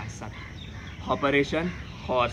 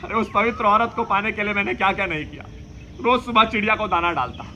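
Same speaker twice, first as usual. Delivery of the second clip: passionate lament; 7 semitones higher than usual. Acted.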